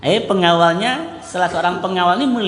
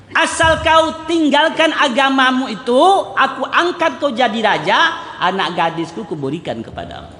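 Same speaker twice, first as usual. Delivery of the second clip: tempting king; 5 semitones higher than usual. Acted. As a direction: dangle the throne like a bribe. King tempts Abdullah to convert.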